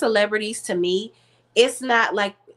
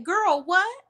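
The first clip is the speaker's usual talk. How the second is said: stunned disbelief; 11 semitones higher than usual. Retold or imitated. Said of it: "I said".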